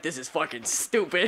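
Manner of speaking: mock bored. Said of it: "You guys are like".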